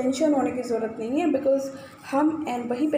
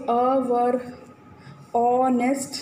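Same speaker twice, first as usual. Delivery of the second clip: slow drill reading; slower than usual. Shown as a demonstration. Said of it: "सबसे पहले अवर".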